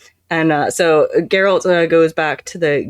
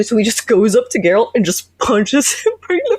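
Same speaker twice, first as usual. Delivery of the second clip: high, laugh-broken telling; giggling through the story; laughing while talking; 8 semitones higher than usual. Real, not acted. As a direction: crack up while getting the words out. Cracking up while telling the fight.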